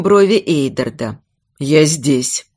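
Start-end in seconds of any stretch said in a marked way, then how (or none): 1.6-2.5 low, steady reassurance; simple, calm answer. Acted. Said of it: "просто ответил он".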